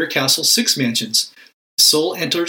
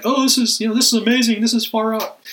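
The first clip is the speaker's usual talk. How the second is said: mock amazement; 9 semitones higher than usual. Preacher mocking ecstatic prayer, higher and hammed-up. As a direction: ham up the far-out wonder.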